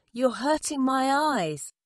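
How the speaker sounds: high storybook protest; pained cry. A narrator's reading. Elephant hurt by pecking birds, high pained cry. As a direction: cry out, pleading for it to end. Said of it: "cried the elephant".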